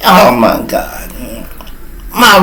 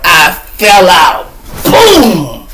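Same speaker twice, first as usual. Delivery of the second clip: excited shout; 3 semitones higher, much slower than usual. Real, not acted. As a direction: shout it like you just hit the floor. Falls to the floor, excited.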